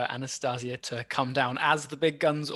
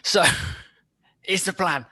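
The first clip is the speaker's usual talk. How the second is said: British schemer; 3 semitones higher than usual. Acted. Player voices British character.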